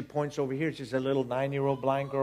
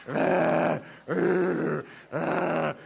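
imitated ugly crying; 3 semitones higher, 3 dB louder, much slower than usual. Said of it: "ugly crying".

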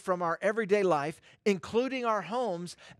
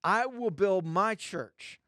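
"my" drawn out as the key word; stress on MY; slower than usual. Shown as a demonstration. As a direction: lean slowly on the word "my". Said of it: "He placed emphasis on the word my".

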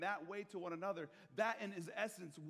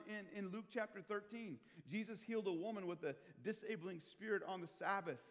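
ordinary talk, nothing marked

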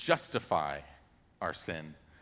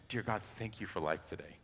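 grateful prayer; 3 semitones lower, 7 dB quieter than usual. Shown as a demonstration. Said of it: "overwhelming sense of gratitude".

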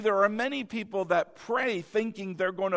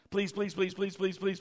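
put-on softer whiny child's pleading; nagging child; 5 dB quieter than usual. Imitating a child pestering a parent, whiny. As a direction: nag like a child wanting something. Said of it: "your children maybe doing that".

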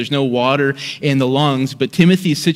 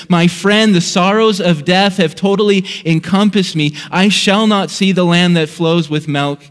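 mild yell; 3 semitones higher than usual. Acted. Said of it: "And then he yells at Hopeful".

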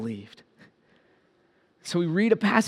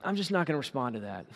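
dismissive; 6 semitones lower, 11 dB quieter, faster than usual. Retold or imitated. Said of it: "And you're like".

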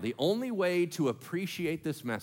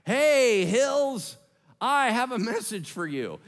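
mock preaching; 6 semitones higher, 5 dB louder, slower than usual. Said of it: "preach to the hills".

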